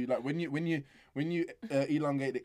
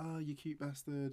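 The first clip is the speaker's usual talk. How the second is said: soft, slower affectionate coo; endearing coo; 7 dB quieter, slower than usual. Retold or imitated. Cooing at a cute kid, softer and slower. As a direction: coo it fondly. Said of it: "It's just endearing".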